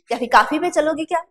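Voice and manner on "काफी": काफी with long aa, 'KAA-fee'; mispronounced coffee. Retold or imitated. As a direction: imitate people saying काफी for coffee. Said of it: "ये उच्चारण ही आपका गलत है".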